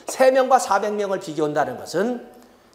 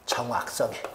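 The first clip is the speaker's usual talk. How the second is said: 정확성에 repeated much softer and lower; 정확성에 quiet lower repeat; soft echo; 7 semitones lower, 8 dB quieter than usual. Shown as a demonstration. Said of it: "정확성에 초점을 둡니다".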